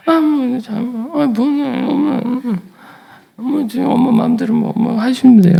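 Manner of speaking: put-on high, drawn-out child's hemming; whiny child. Boy hemming to his mother over the jacket, high child voice. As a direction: hesitate like a shy boy.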